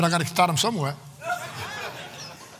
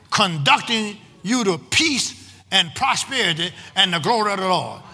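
raised pitch, measured phrases with pauses; preaching scripture reading; 3 semitones higher than usual. Acted. Preacher reading the promise to the congregation, emphatic declamation. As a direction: declaim it phrase by phrase, higher, punching key words.

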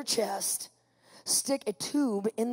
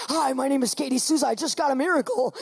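mildly excited self-introduction; eager greeting; 3 dB louder than usual. Retold or imitated. Patient greeting whoever comes into the O R, eager. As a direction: introduce yourself like it's happy news. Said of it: "I do this".

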